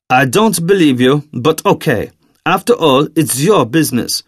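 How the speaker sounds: put-on doubt him, then warn in a German accent; Daniel. Daniel answers Xavier on the phone.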